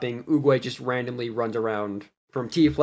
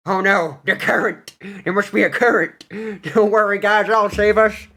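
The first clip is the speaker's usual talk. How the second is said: a bit higher and louder alarmed cry; mock heroic panic; 6 semitones higher, 4 dB louder than usual. Bard yelling to the party about the current, mild mock panic. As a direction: ham up the brave rescue.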